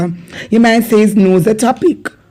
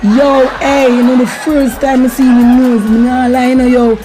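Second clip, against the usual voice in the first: mocking Jamaican street talk; 3 semitones higher than usual. Acting out a street mocking scene.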